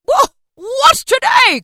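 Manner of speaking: high, slow, loud call; excited, drawn-out holler. A narrator's reading. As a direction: call down to someone in the street. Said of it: "calling downward to a boy".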